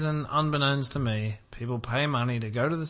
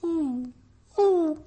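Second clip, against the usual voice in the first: teasing ooh; 3 dB louder, much slower than usual. Real, not acted. Teasing about loving films.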